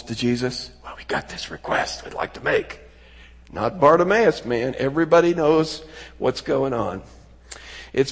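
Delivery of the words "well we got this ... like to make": hushed, furtive near-whisper; lowered tones. Acted. James and John privately petitioning Jesus, lowered tones. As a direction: murmur it softly, keeping it private. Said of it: "kind of talking in lowered tones".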